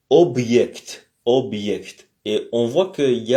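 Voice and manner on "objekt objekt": objekt with a clear y glide after b; Russian objekt. Shown as a demonstration. Teacher pronouncing objekt for the class, careful Russian. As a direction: model objekt as ob-yekt. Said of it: "en russe, on dit".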